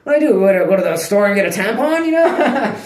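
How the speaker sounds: hammed-up panic over the dog's period; mock panic. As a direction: squeal it like you're freaking out. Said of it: "I'm like".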